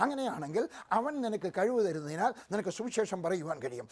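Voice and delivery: ordinary delivery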